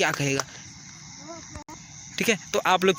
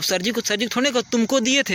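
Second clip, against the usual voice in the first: higher, offhand "तुमको दिए थे" to the teacher; disrespectful way; 4 semitones higher than usual. Shown as a demonstration. Teacher shows pupils the rude way to address sir. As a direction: toss it off carelessly, too familiar. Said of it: "ऐसे कहते हो क्या कोई?".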